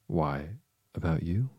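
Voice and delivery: lightly acted triumph; triumphant exclamation. A narrator's reading. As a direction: pitch swooping up in glee. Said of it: "Tweedledee exclaimed".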